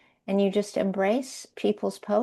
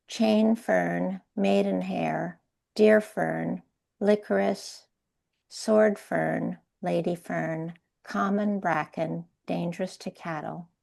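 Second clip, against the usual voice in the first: poetry reading. Acted. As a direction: read it like a poem, unhurried. Reads poem aloud.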